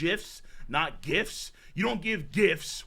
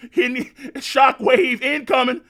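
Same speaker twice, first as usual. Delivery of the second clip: shouting the line out hyped; excited shout; 5 semitones higher, 7 dB louder than usual. Real, not acted. Reacting to the manga blast, shouting. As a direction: yell it like the blast is hitting.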